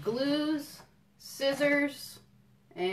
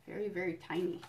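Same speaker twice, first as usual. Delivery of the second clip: tiny voice; 5 dB quieter, faster than usual. Acted. Book contrast large vs tiny.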